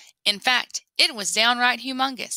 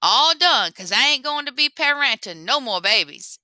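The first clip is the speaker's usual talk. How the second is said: higher, louder cheeky boast; gloating rabbit; 5 semitones higher, 4 dB louder than usual. Acted. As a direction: brag with a grin. Lapin gloating.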